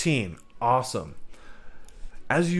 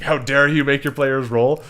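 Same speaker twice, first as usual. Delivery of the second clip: mock outrage; 3 semitones higher, 6 dB louder than usual. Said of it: "that might have come off a little more intense".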